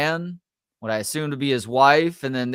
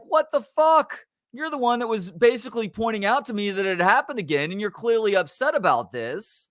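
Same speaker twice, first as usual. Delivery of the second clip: exasperated rant; 6 semitones higher than usual. Retold or imitated. Retold heated reply to family.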